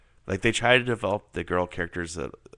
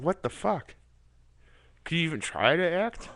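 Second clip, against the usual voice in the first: high-pitched incredulous reaction; exasperated, high-pitched disbelief; mock disbelief; 9 semitones higher than usual. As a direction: react as a baffled viewer, voice pitched way up. Voices his disbelief at bad acting.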